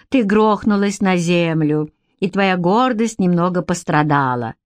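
teasing. Acted. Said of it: "хмыкнула Элейн".

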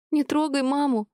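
high, tearful plea, pressing on НЕ; a child crying out to protect mum; sobbing cry. A narrator's reading. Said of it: "плакала навзрыд Аселя". (дочь сквозь рыдания кричит отцу)

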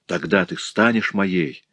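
ordinary delivery

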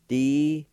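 "Desisting" in long, loud, separate syllables; syllable-by-syllable pronunciation. Shown as a demonstration. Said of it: "It's pronounced like this".

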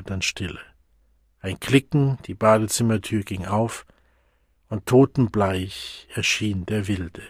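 ordinary delivery, nothing marked

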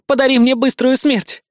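pleading villainess. Acted. Beaten villainess to Savage, mild pleading. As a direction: ask for death, lightly voiced.

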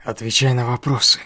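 loud, hard command; ruthless demand. Acted. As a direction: demand an answer without mercy. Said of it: "безжалостно требовал Джинву".

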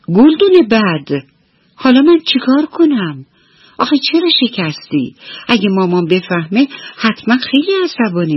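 high, fretful little-mouse voice, talking to himself; worried and sad. Acted. Little mouse frets to himself over the broken vase, high and worried. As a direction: worry aloud like a scared little mouse. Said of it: "ناراحت بود".

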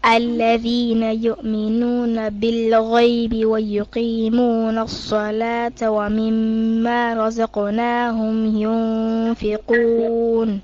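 slow, measured tajweed chant; Quran recitation. Acted. Student reciting Baqarah to her teacher, chanted. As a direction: recite each verse as a trained reciter.

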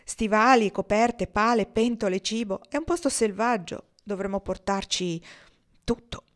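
put-on an eager young man listing gear; youthful enthusiasm. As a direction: rattle them off with boyish excitement. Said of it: "a parlare in fretta, con giovanile entusiasmo".

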